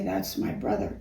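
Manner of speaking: timid, barely voiced line; half-whispered, shy little boy line; shy mumble. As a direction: say it like a shy boy who hardly speaks up. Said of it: "just like that".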